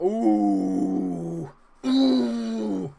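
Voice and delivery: loud rising ooh at a near miss; groaning ooh. Real, not acted. Gamer reacting loudly to a near miss. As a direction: wince aloud at the miss.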